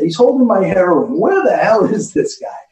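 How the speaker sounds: high, loud mock yell across the room; hammed-up loud high yell; screaming. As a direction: shout to shock the room. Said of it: "And I'm screaming".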